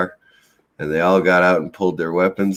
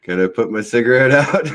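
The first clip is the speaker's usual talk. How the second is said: casual question with a raised pitch, retold comically; innocent, unworried ask, pitched up; unfazed request; 5 semitones higher, 3 dB louder than usual. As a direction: ask as though guns were no bother. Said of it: "my heart rate never even increased".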